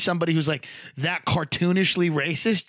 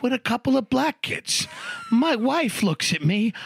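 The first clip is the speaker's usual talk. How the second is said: Italian guy; 3 semitones higher than usual. Retold or imitated. Coworker complaining about his daughter's guests, mimicked Italian accent. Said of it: "he talked like this, Italian guy".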